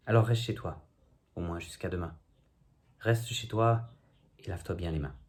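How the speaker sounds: spoken-word poem in measured phrases; declaimed verse with lifted phrase ends; poem recitation. Acted. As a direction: recite a wry poem, line by line. Recites own comic poem.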